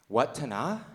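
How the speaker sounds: Watana as a questioning WUT-ta-nah; other name pronunciation. Retold or imitated. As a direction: ask Watana with short WUT and open final NAH. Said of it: "Is it pronounced".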